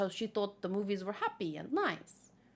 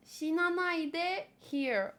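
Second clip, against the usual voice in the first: slow cute voice; 4 semitones higher, much slower than usual. Acted. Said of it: "He literally says".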